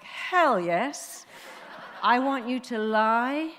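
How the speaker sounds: loud, far-carrying yes, then slowing down; emphatic retold affirmation. Therapist urging passenger to lie to her brain, emphatic. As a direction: belt out the go-ahead, slow and firm.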